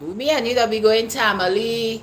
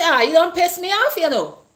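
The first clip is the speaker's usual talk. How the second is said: put-on laid-on thick Caribbean accent, pitched up; 7 semitones higher than usual. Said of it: "when the accent come real heavy".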